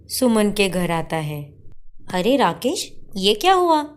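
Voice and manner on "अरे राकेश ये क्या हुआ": alarmed high cry at his injuries; shocked. Acted. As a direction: gasp it out, worried. Sister sees injured brother. (चोट देखकर घबराई हुई बहन)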